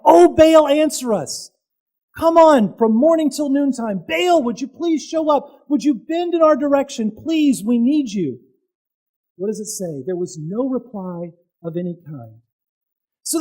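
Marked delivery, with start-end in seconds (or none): 0.0-8.4 high, loud pleading wail; crying out to Baal. Retold or imitated. Prophets of Baal plead for their god to answer, high wailing. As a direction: beg the silent god desperately. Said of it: "started crying out".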